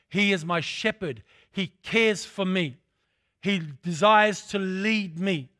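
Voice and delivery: drawn-out, weighty preacher's cadence; sermon delivery, stretched and deliberate; slow emphatic preaching. Acted. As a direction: lay each phrase down slowly.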